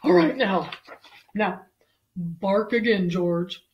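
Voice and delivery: loud, firm vet order; commanding vet. Acted. Vet telling George to bark again, firm command. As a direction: instruct the patient forcefully.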